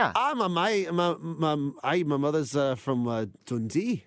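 halting attempt at Scots; hesitant, amateur Scottish impression; put-on Scottish accent. Shown as a demonstration. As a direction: stumble along in a mock Scottish accent. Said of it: "I can do a Scottish accent".

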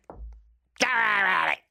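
drawn-out, lightly posh English soothing; slow mock English comfort. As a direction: stretch "Don't worry about it" out slowly in a mild put-on English accent. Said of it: "I went ridiculously English".

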